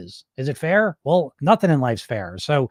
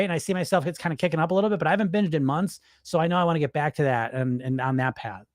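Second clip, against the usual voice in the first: calm grounded; 4 dB quieter than usual. Shown as a demonstration. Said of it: "You should be saying it like this".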